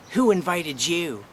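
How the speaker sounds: loud, slow, high mock yell. Cousin yelling across a funeral home, loud mock yell. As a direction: belt it out as a hostile public heckle. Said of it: "she yells out to the top of her voice".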